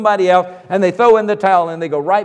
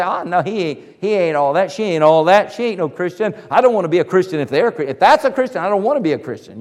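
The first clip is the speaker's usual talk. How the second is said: mock scornful critic; 2 semitones lower, faster than usual. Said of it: "Now they say".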